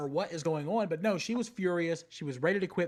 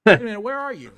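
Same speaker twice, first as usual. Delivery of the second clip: sudden loud question; loud surprised call; 6 semitones higher, 13 dB louder, faster than usual. Real, not acted. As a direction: call out, startled. Surprised, calling to Becky.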